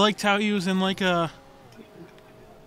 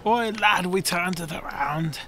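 put-on vague British accent. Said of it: "I don't know what accent that was".

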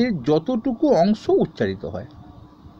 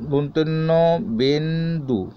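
syllable by syllable; slower than usual. Shown as a demonstration. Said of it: "যেমন নবেন্দু".

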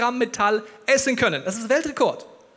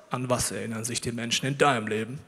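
deep God voice; 9 semitones lower, 4 dB quieter than usual. Acted. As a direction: speak as God, deep and unhurried. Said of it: "Gott fragt ihn mit tiefer Stimme".

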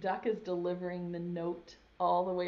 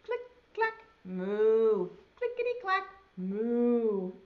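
typing cows; 6 dB louder, slower than usual. Acted. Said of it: "Can you read this part with me?".

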